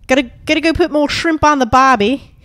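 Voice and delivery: put-on lightly done Aussie accent; Australian accent. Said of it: "this is my accent when I do Australia".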